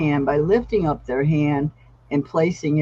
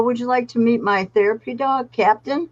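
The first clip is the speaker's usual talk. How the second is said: put-on gentle voice for a child; 6 semitones higher than usual. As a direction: coax him kindly, pitched up. Handler greets scared crying child.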